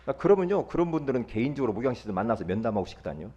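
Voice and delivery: ordinary delivery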